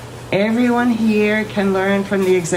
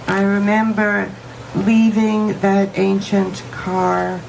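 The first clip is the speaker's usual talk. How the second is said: poem reading. Acted. Reads poem aloud.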